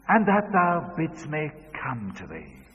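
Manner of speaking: daughter's prompting line; child leading the verse. Retold or imitated. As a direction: prompt it clearly. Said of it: "say this after me".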